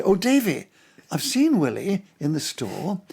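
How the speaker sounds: put-on innocent English accent, drawn out slowly. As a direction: report back as the naive English newcomer. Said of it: "with my English accent saying".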